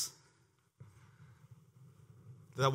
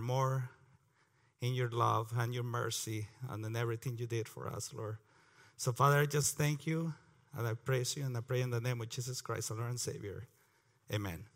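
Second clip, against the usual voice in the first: prayer; 2 semitones lower than usual. Real, not acted. Opening prayer before the Bible reading.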